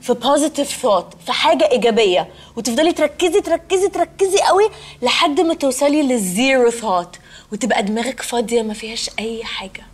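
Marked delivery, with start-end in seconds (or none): 2.6-9.9 meditation voice. Shown as a demonstration. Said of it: "مديتيشن يعني التأمل".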